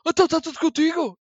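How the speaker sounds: dramatic pause greeting. Retold or imitated. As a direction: pause dramatically, then blurt it high. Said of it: "dá aquela pausa dramática de género".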